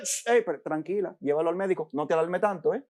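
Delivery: soft, hushed reassurance; preacher softly calming a worried woman; soothing. Pretend. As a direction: hush her gently, quickly.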